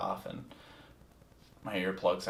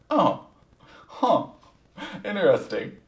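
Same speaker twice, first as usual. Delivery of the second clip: surprised; 11 semitones higher, 9 dB louder than usual. Retold or imitated. Taken aback by the girl's blunt answer.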